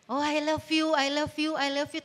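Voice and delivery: lightly mocked lovey-dovey repetition; empty declarations. Lover professing love without any action, mildly mocking. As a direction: reel it off like words with nothing behind them. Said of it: "tapi actionnya nggak ada".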